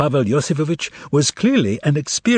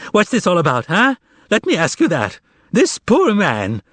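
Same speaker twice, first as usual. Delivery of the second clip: quavering plea; 6 semitones higher than usual. A narrator's reading. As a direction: lay on the pity. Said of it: "added a quaver to his voice".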